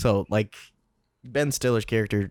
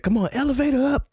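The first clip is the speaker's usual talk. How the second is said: mock commander. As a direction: bark it like a movie commander. Quoting the movie commander.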